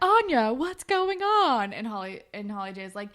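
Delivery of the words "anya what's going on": high, loud, drawn-out call; imitated demanding call. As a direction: call her out, stretching the question. Voices coordinator calling out to Anya.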